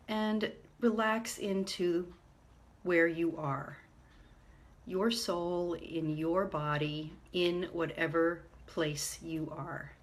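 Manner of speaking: calm meditation guide, unhurried with long pauses; guided meditation. Real, not acted. Meditation leader guiding listeners to ground themselves, calm and measured. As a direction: lead them gently inward, leaving space between phrases.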